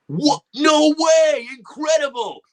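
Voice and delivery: high, loud astonished exclamations; amazed. Retold or imitated. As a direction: burst out in delighted disbelief. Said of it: "And he was just like".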